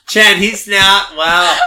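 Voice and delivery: laughing. Real, not acted. Laughing in disbelief.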